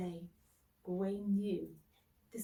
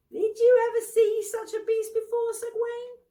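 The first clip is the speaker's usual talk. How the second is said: booming and much higher, a big showman's voice; boasting knight; 14 semitones higher, 10 dB louder than usual. Acted. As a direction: crow over the trophy, loud and high. Bertilac shows off the boar.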